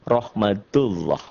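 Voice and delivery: slow "rahmatullah" with a round O-like "Allah"; "rahmatullah" recited slowly with heavy rounded L; thick lafaz Allah. Shown as a demonstration. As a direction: say "rahmatullah" slowly, its "-llah" dark and thick like "loh". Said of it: "Dibaca tebal, berbunyi "Oh Allah".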